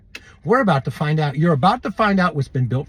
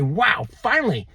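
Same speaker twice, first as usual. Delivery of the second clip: "finally" leaping high in delight; the soul cries out with joy at last; joyful relief; 3 semitones higher than usual. Pretend. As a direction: exhale it like a soul set free. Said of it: "your soul's finally gonna say".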